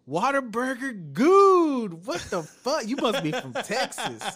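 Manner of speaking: high, slow mocking gamer voice; imitating random gamer. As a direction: put on a stranger's goofy high voice over voice chat. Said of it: "you can hear somebody in the back".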